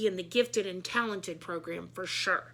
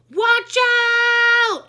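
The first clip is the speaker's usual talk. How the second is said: piercing high yell of warning; scream; 12 semitones higher, 15 dB louder than usual. A narrator's reading. The crowd screaming at Emily, a piercing warning yell. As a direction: shriek it as a warning. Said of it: "everybody screamed".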